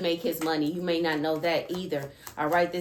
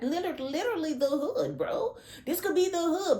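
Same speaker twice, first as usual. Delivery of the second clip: mock hood voice; 10 semitones higher than usual. Mocking the hood, high voice.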